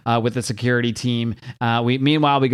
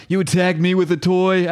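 villain voice; 6 semitones higher than usual. Acted. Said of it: "I don't even know what voice is supposed to do for King Snake".

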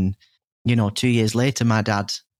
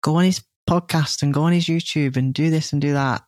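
a hint of the dad kindly calming her, higher; gentle reassurance; 5 semitones higher than usual.

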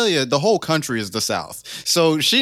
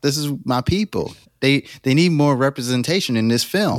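put-on light Southern accent. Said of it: "Why are you talking like that?".

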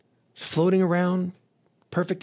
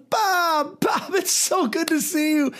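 high, smooth devil host voice; Satan welcoming Bob to the party, high and slick; Satan greeting; 11 semitones higher, slower than usual. Acted. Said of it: "He goes".

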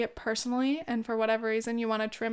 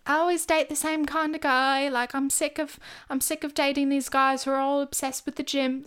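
put-on British accent; 3 semitones higher than usual. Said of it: "the accent is fucking horrendous".

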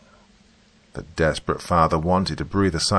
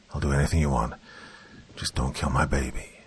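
soft, desperate begging; begging for mercy; 3 semitones lower, 5 dB quieter than usual. Acted. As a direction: plead quietly for his child. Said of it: "Malcolm begged for mercy".

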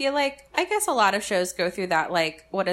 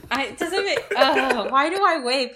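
self-conscious laugh; 5 semitones higher, 4 dB louder than usual. Real, not acted. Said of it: "I like that you're waving".

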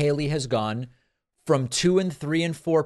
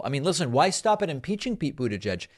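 ordinary talk

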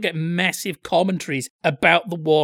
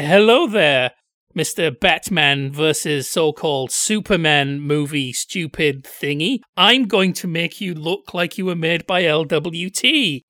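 villain voice; 4 dB louder, slower than usual. Pretend. Malicious villain taunting a movie.

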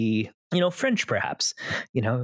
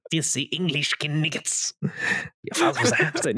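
mock French accent; 2 semitones higher than usual. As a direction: jeer in an over-the-top fake French accent. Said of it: "filthy Frenchman".

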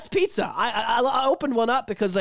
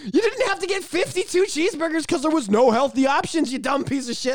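Bill rant impression; 9 semitones higher than usual. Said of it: "He's like".

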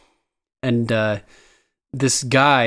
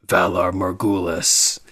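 Grey Worm; 5 semitones lower, slower than usual. Retold or imitated. Grey Worm entering from darkness.

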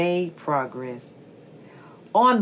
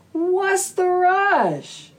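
little snake voice; 11 semitones higher, slower than usual. Acted. Little snake asks a fox.

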